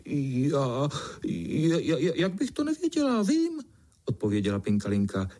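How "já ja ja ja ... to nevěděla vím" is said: stammering, rising much higher; unsure stammer. Acted. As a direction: caught out, stumble over the words. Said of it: "i když dost nejistě".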